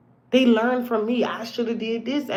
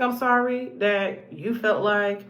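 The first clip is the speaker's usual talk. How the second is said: sarcastic "I'm sorry" with a slight lift; a mock-sorry tossed off; 3 semitones lower, 3 dB quieter, slower than usual. Shown as a demonstration. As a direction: say "I'm sorry" like you don't mean it. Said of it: "Or you can do the sarcastic".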